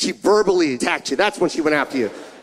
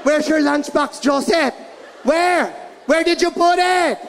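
higher shouting mom voice; mock mom yell; 6 semitones higher than usual. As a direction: keep hammering the question. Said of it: "Two and a half hours of yelling".

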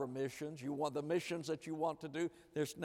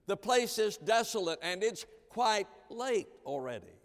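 higher, pleading voice of worried disciples; a lightly voiced anxious disciple; 3 semitones higher than usual. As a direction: urge Jesus as fretting followers.

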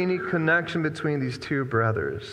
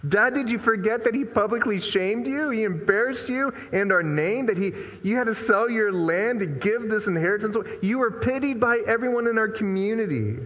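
a touch higher, lightly voiced indignant son; indignant older son; 4 semitones higher than usual. Older son reproaching his father, lightly indignant. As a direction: plead your case with mild outrage.

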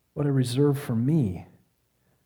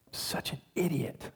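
berating himself; 10 dB quieter than usual. Retold or imitated. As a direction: berate yourself under your breath. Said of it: "a torrent of really berating language".

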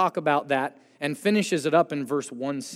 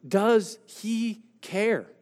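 doubting question; 5 semitones higher, much slower than usual. Pretend. Voicing a doubting believer's question.

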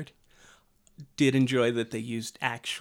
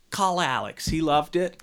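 high, loud put-on actor's voice; hammed-up actor passing the buck; Peter Cushing; 5 semitones higher, 6 dB louder than usual. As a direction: recommend it insistently, in character. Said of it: "Peter Cushing was doing Star Wars".

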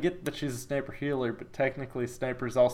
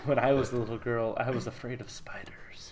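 put-on French accent; 6 dB quieter than usual. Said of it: "you do a terrible French accent".

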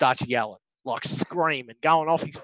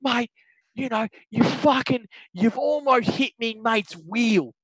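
higher, indignant mock rant without shouting; retold yelling; 6 semitones higher, slower than usual. Angry golfer to the other player, mock yelling. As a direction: imitate an aggrieved golfer, drawn out at the end. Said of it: "Starts going again".

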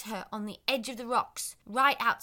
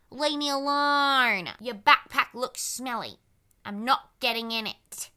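put-on grumpy pumpkin boy; 3 dB louder, slower than usual. Rude pumpkin boy speaks.

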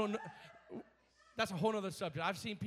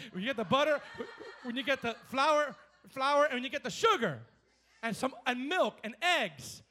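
giggling, louder listing of ingredients; laughing through words; 3 semitones higher, 7 dB louder than usual. Real, not acted. Preacher joking about baking to the church, laughing. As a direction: let laughter spill into the list.

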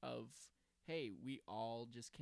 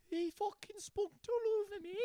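high, hammed-up fake Australian accent; a mock Aussie voice that misses the mark; bad Australian accent; 3 dB louder than usual. Friend mocking his love of Aussie slang, in a bad Australian accent. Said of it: "that's not even a fucking Australian accent".

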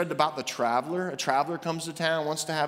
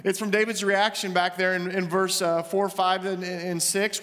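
ordinary talk

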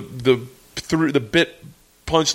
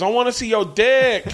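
mock heckler girl; 6 semitones higher than usual.

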